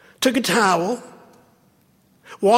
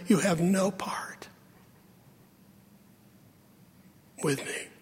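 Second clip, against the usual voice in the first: whispered warning; hushed whisper; 2 semitones lower, 9 dB quieter than usual. Real, not acted. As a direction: let it sink in quietly. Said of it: "preacher drops to whisper".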